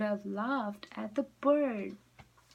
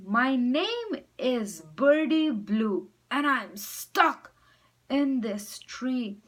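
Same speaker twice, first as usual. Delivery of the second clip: pleading bird; 6 semitones higher, 4 dB louder than usual. Acted. Bird begs for help.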